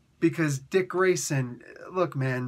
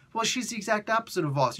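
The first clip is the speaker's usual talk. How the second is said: nervous objection; 5 semitones higher, faster than usual. Retold or imitated. Employee objecting, higher and fast.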